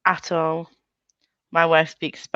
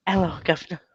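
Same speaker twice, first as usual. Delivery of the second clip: put-on cockney accent; 4 dB quieter, faster than usual. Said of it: "Says that to Becca all the time".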